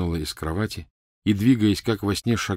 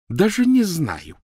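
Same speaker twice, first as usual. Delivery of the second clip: high, drawn-out, biting; loud, slow mock puzzlement; heavy sarcasm; 11 semitones higher, 5 dB louder, slower than usual. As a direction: stretch it out with withering sarcasm. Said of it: "с жутким сарказмом ответила Гермиона".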